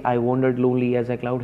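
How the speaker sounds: "I wandered lonely as a cloud" rattled off fast; fast, offhand quote; quick quote. Shown as a demonstration. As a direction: toss the line off quickly. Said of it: "So when we say".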